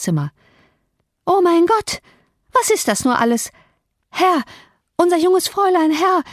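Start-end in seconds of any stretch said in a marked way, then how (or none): 1.2-6.2 high, gasping cries of alarm; breathless panic. A narrator's reading. Maid bursting in with terrible news, high breathless panic. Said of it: "kam keuchend mit offenem Munde".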